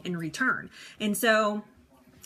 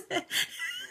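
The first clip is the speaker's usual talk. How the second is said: real high-pitched laugh; high burst of laughter; 7 dB quieter than usual. Real, not acted. Big laugh at a comment.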